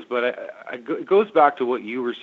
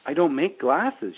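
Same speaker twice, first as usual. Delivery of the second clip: said very nicely; 4 semitones higher, slower than usual. Retold or imitated. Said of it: "I had to say very nicely".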